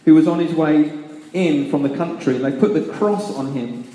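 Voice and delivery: measured, solemn Bible reading; scripture reading. Acted. Preacher reading Luke to the congregation, solemn scripture reading. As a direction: read the passion aloud to the congregation. Reads Luke's passion aloud.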